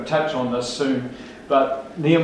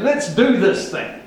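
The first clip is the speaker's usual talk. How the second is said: 1 eager crowd; 6 semitones higher, slower than usual. Retold or imitated. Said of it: "That's what they said".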